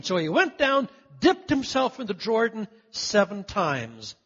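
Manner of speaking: slow, measured reading of the verse; scripture reading. Acted. Pastor reading scripture aloud to his church, slow and measured. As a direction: read the verse slowly to the congregation.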